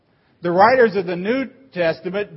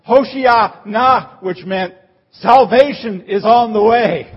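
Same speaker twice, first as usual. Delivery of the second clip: high, loud, slow Hoshiana of relief; joyful shout; 4 semitones higher, 6 dB louder than usual. Retold or imitated. Swimmer seeing the lifeguard coming, shouting with joy. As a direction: cheer as the lifeguard swims up. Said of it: "you'd have shouted".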